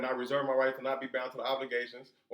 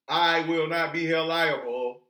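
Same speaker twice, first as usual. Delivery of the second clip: loud, slow, every word weighted; firm declaration; 6 dB louder, slower than usual. Acted. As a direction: declare it slowly and forcefully. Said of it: "you let it be known".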